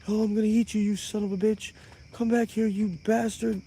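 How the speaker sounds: playing the furious cannibal chasing him, half-hearted; mock angry yelling. Retelling the cannibal chasing him through the bunker, hammed-up threats. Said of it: "He's mad now".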